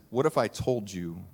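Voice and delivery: a hint of the mentor teasing a secret; Morpheus. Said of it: "he says".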